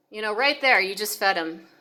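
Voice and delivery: ordinary talk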